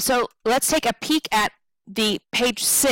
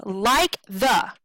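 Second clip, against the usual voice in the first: LIKE THE as two short even beats; quick unstressed syllables. Shown as a demonstration. Teacher demonstrating unstressed syllables, LIKE THE short and even. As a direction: keep "like the" short, neither stressed. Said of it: "those are two very quick syllables".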